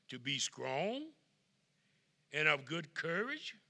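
slow, building scripture reading; scripture read aloud. Acted. Preacher reading Joshua to the congregation, slow and swelling. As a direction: proclaim the verse word by word.

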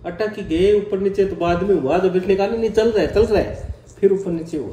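loud, lively storytelling; excited retelling. Real, not acted. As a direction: tell the scare with energy. Excited retelling of choking scare.

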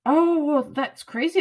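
lightly mimicked surprise; mimicked friend's reaction.

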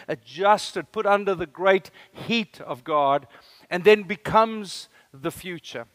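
usual speaking voice

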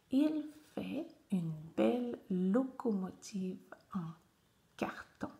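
careful word-by-word reading; measured teacher reading of a simple text; reading aloud. Shown as a demonstration. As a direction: read to beginning readers, pausing between words. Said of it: "je te lis le texte".

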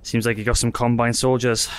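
breathless after running; panting between words; out of breath. Real, not acted. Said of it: "Sorry, I'm out of breath".

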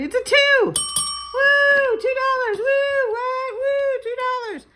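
squealing, very high and loud over two dollars; mock excitement. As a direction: overplay the joy of a tiny win. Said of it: "Maybe we'll just get excited".

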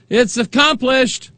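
very high, drawn-out mock proclamation; hammed-up high priest calling out slowly; mock priestly proclamation. Imagined high priest coming out to the people, mock proclaiming. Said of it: "proclaim to the nation".

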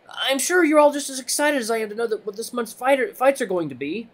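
high, halting timid voice on the mic; nervous rabbit announcer. Acted. Timid rabbit addressing the waiting crowd, nervous and high. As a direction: push through a public announcement nervously.

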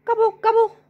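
groaned gobble. Acted. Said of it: "groaned Turkey".

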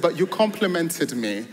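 amused, beaming protest; tickled, laughing retort to teasing friends; laughing delight. Retold or imitated. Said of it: "I was joyful".

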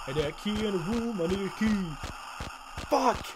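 frustration rising into a yelled swear; frustrated outburst. Real, not acted. Cannot find the key.

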